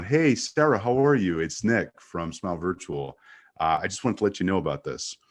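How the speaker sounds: bright, energetic on-camera hello; upbeat video greeting. Shown as a demonstration. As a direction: greet her like the camera just went live. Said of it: "Lights go on, camera goes on".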